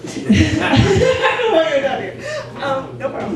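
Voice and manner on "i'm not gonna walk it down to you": laughing, slow and louder. Real, not acted. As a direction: repeat it through laughter. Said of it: "you get to grab your beer".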